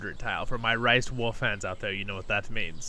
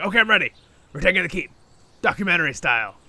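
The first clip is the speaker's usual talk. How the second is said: excited; 6 semitones higher, 10 dB louder, faster than usual. Retold or imitated. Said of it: "and was like".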